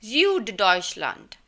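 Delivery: Süddeutschland said very slowly, German ü and final t; slow German pronunciation. Shown as a demonstration. Teacher to students, slowly modelling the German word. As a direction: spell out Süddeutschland slowly for the class. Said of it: "Süd का मतलब होता है south".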